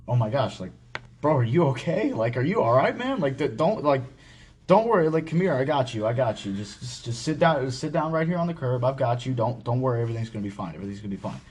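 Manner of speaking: calm a crying buddy down, half-acted; retold comforting. Retelling how his boss comforted him, lightly voiced reassurance.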